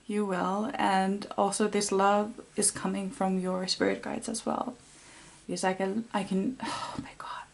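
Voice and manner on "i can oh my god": real welling tears. Real, not acted. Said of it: "it's making me cry".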